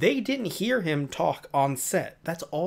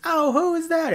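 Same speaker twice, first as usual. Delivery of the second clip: high falsetto question, louder; mock phone character; 13 semitones higher, 5 dB louder than usual. Acting out friends on the phone, mock high voice. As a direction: put on a high, loud pretend voice.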